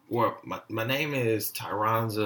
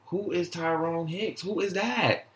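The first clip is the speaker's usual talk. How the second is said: acted indignant questioning; 6 semitones higher than usual. Acted retort to the mispronounced name.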